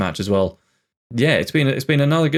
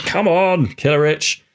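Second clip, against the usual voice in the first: high, jubilant cheer; real burst of delight at a goal; excited goal celebration; 6 semitones higher, slower than usual. Real, not acted. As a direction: cheer the scorer on, pitch leaping. Celebrating another goal just scored.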